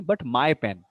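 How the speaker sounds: contrastive weight on "my"; stress on MY. Shown as a demonstration. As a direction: lean on "my" against someone else's. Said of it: "not someone else's pen".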